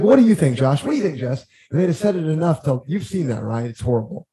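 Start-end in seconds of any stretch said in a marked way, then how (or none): 0.0-1.4 mock needling investor. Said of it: "They'd have been like".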